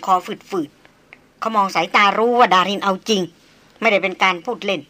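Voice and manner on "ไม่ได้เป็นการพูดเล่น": usual speaking voice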